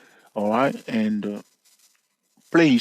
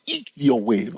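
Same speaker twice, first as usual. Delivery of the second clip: Elliott in a claimed Texas accent; Texas-accented take on Elliott wave; slower than usual. Shown as a demonstration. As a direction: say Elliott with a Texas accent, stressing the first syllable. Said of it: "I'm speaking with my Texas accent".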